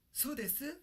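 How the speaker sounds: high, snippy "So desu?"; a put-out girl snapping back; mad girl. Pretend. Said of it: "A girl's mad".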